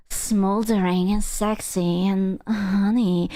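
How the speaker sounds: slow, lightly sultry imitation; mock dommy mommy voice. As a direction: imitate a smoldering, drawn-out seductress. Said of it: "talking in a dummy mommy voice".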